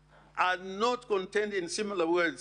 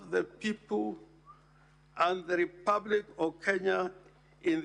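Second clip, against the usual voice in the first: formal oath reading; 2 semitones higher than usual. Shown as a demonstration. Senator reading the deputy president's oath to the Senate, solemn and measured. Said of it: "reads as follows".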